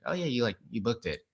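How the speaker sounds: imitated offhand manager, making little of big news; nonchalant. Manager tells an actor about the booked role, nonchalant. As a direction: break the good news as if it's nothing. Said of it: "she just made it sound so nonchalant".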